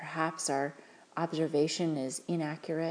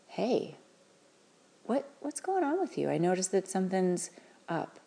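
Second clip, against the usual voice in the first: gentle parent check-in; 4 semitones higher than usual. Shown as a demonstration. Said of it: "saying something like".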